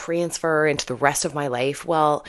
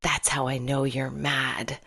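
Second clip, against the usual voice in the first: softer, slow, confiding aside, still voiced; retold whisper; 6 dB quieter, slower than usual. Student leaning over to tell the teacher in a soft, slow, confiding aside. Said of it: "he leaned over to me and whispered".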